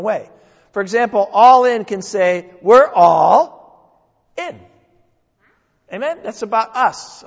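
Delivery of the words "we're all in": louder, rallying call; rallying cry, loud and proud; proclaimed. Acted. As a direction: declare it to the congregation. Sermon theme declared.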